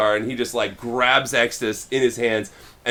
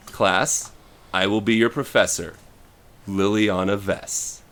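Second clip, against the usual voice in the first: ominous professor; 3 semitones lower than usual. Retold or imitated. Professor introduces herself to class.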